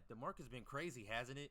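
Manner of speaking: hammed-up sly question; mocking a liar. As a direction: play the follower pretending all is normal. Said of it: "they gonna be lying".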